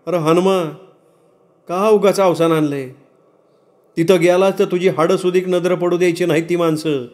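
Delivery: lightly voiced warning villager; cautioning villager. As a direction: reason with a hothead, pitched a little high. Villager warns the angry father.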